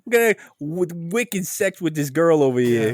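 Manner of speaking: put-on Boston accent. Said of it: "I should have done all that in a Boston accent".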